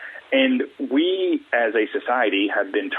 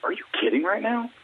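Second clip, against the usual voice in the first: higher-pitched mock disbelief; incredulous retort; 8 semitones higher than usual. Replying to a pointless how-are-you, mock incredulous. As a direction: throw it back as an absurd question.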